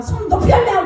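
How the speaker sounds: retold yell. Yelling hands higher.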